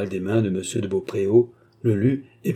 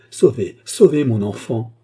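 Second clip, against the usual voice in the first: terrified plea; 6 dB louder than usual. Acted. Terrified mother begs help.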